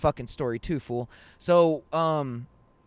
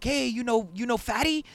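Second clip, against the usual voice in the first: acted question; 8 semitones higher than usual. Stranger asks buddy a question.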